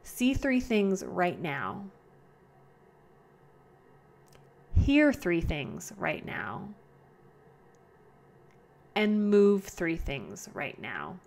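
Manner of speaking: slow, paced meditation voice; slow guided prompts; guided grounding exercise. Shown as a demonstration. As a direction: lead the listener calmly.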